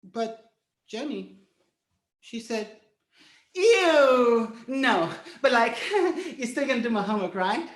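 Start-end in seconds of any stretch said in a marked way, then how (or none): 3.5-7.7 put-on laughing dismissive teen girl; mocking girl. Jenny to boy, laughing scornful rejection. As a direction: laugh him off.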